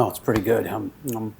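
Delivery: talking while chewing pizza; words round a bite of pizza; mouth full. Real, not acted. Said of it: "disrespectful that you're eating right now".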